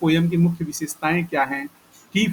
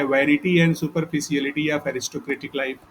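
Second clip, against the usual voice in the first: slow dictation; much slower than usual. Shown as a demonstration. Dictating theme slowly.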